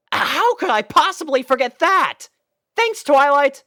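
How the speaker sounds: put-on high, loud, fast boyish panic; panicked realisation. Spike remembering his promise to Rarity, high loud hurried panic. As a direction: rush it out as it hits you.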